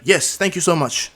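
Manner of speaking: loud, slow formal thanks; emphatic thanks. Acted. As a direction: stand up and thank them loudly. Student stands to thank loudly.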